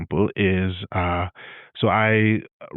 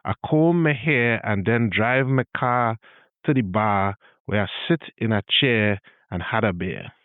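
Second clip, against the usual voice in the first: Trini accent sentence. Shown as a demonstration. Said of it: "example again becomes".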